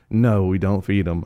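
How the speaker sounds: understated, matter-of-fact cold refusal. Retold or imitated. Little girl saying the dog goes unfed, understated cold voice. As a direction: refuse coolly, at an ordinary pitch. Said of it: "as cold as can be".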